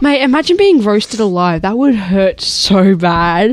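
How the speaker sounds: loud, horrified exclamation; appalled. Real, not acted. Co-host imagines being roasted alive, loudly appalled.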